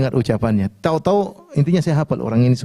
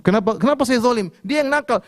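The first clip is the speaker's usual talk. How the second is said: high-pitched defensive retort; indignant protest; 9 semitones higher than usual. Retold or imitated. Father protesting to the officer, high and indignant. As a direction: bristle back, pitched higher.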